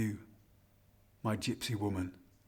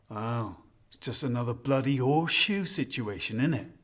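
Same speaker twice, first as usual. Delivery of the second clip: put-on broad rural Shire accent, lightly done; thick Shire accent; 3 dB louder than usual. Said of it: "in that thick Shire accent said".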